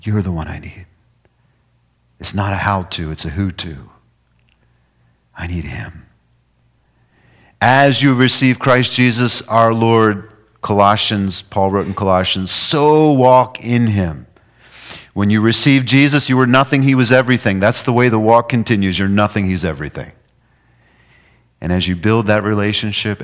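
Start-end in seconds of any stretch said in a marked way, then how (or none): 0.0-0.8 slow tender prayer. Acted. 7.6-19.5 louder, higher preaching; preaching at full force. Acted.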